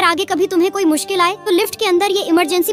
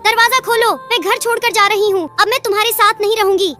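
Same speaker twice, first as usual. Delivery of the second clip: angry hen shouting; 5 semitones higher than usual. Acted. Hen angrily leaving home.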